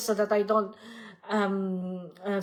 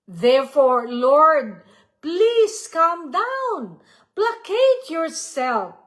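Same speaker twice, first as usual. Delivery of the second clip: slow, mildly raised plea to the Lord; pleading; 3 semitones higher, slower than usual. Acted. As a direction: draw out the request, pitch lifted. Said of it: "That's what Luisa is asking the Lord".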